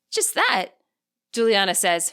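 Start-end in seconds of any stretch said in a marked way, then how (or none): 0.1-0.7 voice cracking. A narrator's reading. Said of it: "her voice cracking".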